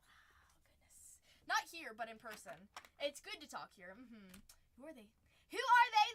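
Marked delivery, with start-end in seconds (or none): 0.1-1.2 slow, hushed amazement; whispered aside. Real, not acted. Aside on talking too much. 5.5-6.1 loud, high challenge; mock outrage.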